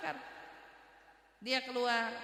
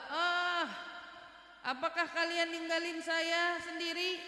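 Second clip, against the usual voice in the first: plaintive, raised cry from the dead; mock wail, pitched up and held; imitated grave cry; 4 semitones higher, slower than usual. Dead man calling to those leaving his grave, imitated wail. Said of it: "ada teriakan suara kayak gitu".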